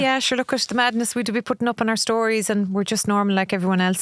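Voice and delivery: breezy, matter-of-fact fan chat; imitating a chummy fan; casual friendly fan. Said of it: "it's kinda like".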